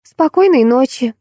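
high-pitched little goodnight; chirping child. A narrator's reading. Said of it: "прощебетала киса". (щебеча детским голоском)

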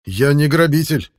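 slow, heavy words as if the tongue were iron; tongue-tied reply; thick-tongued. A narrator's reading. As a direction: force out each word with a stiff tongue. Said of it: "едва ворочая языком".

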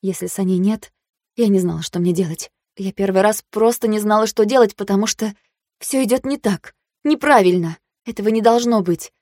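plain reading voice

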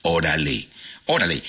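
"órale" acentuado en la O inicial; acento en la O. Shown as a demonstration. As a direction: marca la primera sílaba de "órale". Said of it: "con tilde en la O". (acento en la primera sílaba de "órale")

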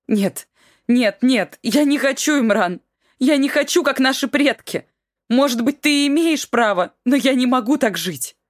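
high, loud pleading refusal; wife refusing to live this way, high and loud; desperate refusal. Acted. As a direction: beg him, rising to a cry.

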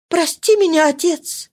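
high imploring plea; pleading. Acted. Marie throwing herself at her father's feet: pleading. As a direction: beg him at his feet. Daughter begs forgiveness.

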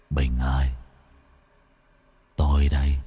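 low, soft ghost voice beckoning; dead friend luring him, low and hollow; eerie low summons; ghostly call. Acted. Dead Khất calls from the mist.

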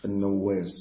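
النواس as an-Nawwas, long doubled w; doubled waw. Shown as a demonstration. Teacher repeating the narrator's name, النواس with doubled waw. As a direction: open nun, then lean on the double waw in النواس. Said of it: "بفتح النون وتشديد الواو".

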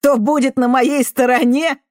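loud, high scornful laughing echo; mocking laugh. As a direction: throw her words back with a bitter laugh. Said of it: "хохотнул он".

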